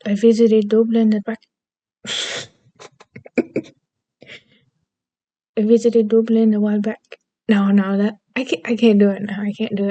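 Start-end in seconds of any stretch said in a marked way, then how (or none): 0.1-1.4 attempted Irish accent. Shown as a demonstration. Vlogger quoting an actress about Dublin, attempted Irish accent. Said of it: "I can do an Irish accent". 5.6-7.2 shaky attempt at an Irish accent. Shown as a demonstration. Second go at an actress's Dublin line, attempted Irish accent. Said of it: "I can do an Irish accent".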